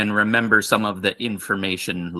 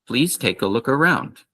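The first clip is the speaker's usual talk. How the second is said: full model greeting. Shown as a demonstration. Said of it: "so the whole thing".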